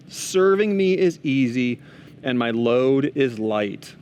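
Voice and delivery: slow, measured Bible reading; scripture reading. Acted. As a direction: read the verse out slowly, phrase by phrase. Reads a Bible passage to listeners.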